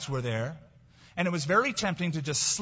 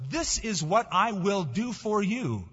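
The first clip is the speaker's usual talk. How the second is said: slow, higher-pitched, weighty declaration; emphatic promise; 4 semitones higher, slower than usual. Acted. God promising what he will do, slow and emphatic. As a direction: spell out the promise deliberately, word by word. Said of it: "When God emphasizes in the Bible".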